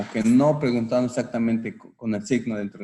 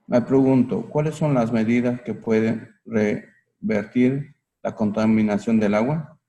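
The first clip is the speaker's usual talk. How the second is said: loud reading aloud; 6 dB louder than usual. Real, not acted. Student reads example aloud.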